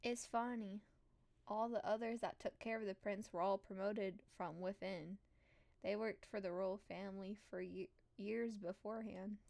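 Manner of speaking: put-on servant telling palace history in a country accent. Servant telling newcomer about past helpers, country accent. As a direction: keep a country accent through the gossip. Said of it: "using a country accent for her".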